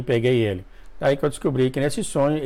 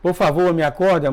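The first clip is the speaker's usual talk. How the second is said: mild mock begging, a little higher; retold pleading; 4 semitones higher than usual. Dreamer face-down begging Jesus to wake him, mild pleading. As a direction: beg to be woken, lightly acted. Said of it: "caí de cara no chão e falava".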